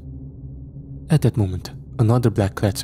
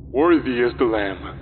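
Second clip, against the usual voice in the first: screamed; 3 semitones higher than usual. A narrator's reading. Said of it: "screamed with electronic amplification".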